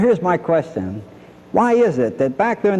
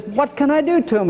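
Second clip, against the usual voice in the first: furious king; 11 semitones higher than usual. Retold or imitated. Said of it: "he's just so furious".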